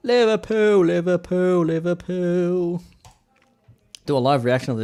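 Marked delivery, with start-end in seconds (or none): 0.1-2.8 high, drawn-out Scouse chant; loud, hammed-up Scouse on the club name; Scouse accent. Shown as a demonstration. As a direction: exaggerate the Scouse, pitched well up. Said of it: "speak in the Scouse accent".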